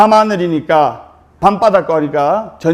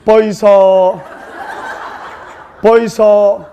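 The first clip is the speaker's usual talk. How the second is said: Gyeongsang wife; slower than usual. Retold or imitated. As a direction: call out in thick Gyeongsang dialect. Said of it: "경상도 신부가 경상도 신랑에게".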